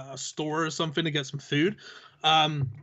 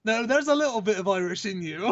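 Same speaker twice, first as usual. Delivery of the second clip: higher voice for the lady; imitated insistent lady; 4 semitones higher than usual. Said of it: "And she's like".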